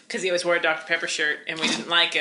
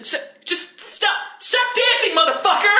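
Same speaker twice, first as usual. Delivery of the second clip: higher, mock furious order; mock angry; 12 semitones higher than usual. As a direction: bark at the dancing drunk. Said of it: "he was like".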